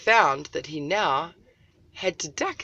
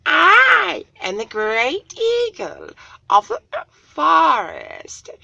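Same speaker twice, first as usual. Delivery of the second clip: much higher, louder, slow eagle voice; great eagle voice; 10 semitones higher, 9 dB louder, slower than usual. Acted. Eagle speaks down to Little Cloud, high and booming. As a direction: call down like a lofty eagle.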